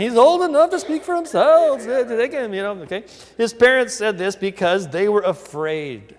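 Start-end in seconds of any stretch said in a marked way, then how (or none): 0.0-1.8 higher, louder, in a mock Jewish accent; hammed-up Jewish accent, pitched up and pushed out; playful imitation of a Jewish accent on the parents' line. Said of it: "They must have said it with a Jewish accent".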